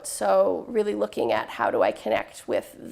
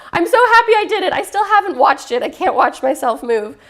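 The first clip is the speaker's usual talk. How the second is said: quoting dancers; 7 semitones higher, 8 dB louder than usual. Retold or imitated. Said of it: "some of them are like".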